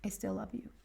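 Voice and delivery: unvoiced tender whisper of the line; a child's hushed whisper to his mom. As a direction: breathe it to Mom like a small boy. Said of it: "He was like".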